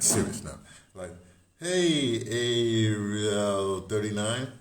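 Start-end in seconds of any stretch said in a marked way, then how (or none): 1.6-4.5 loud drawn-out call, slow. Real, not acted. Host calling out a viewer's name, loud and slow. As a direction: stretch the name out to reach them.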